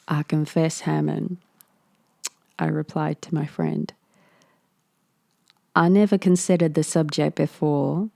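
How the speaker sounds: lightly put-on Midwestern cowboy accent; mock Midwestern cowboy. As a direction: Midwestern cowboy accent, a touch half-hearted. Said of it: "Midwestern cowboy".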